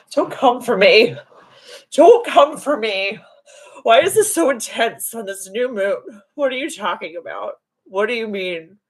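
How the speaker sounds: high, hammed-up exasperation; indignant protest. Driver arguing back at guides over her impatience, indignant. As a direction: protest it high, as if put upon.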